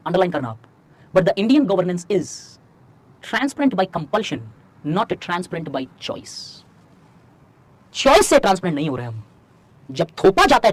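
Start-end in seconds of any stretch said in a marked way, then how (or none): 1.2-6.6 very slow, word-by-word delivery; slow dictation. Shown as a demonstration. Teacher dictating a key line for students to copy, slowly. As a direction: say it slowly so they can write every word. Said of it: "धीरे-धीरे बोल रहा हूं".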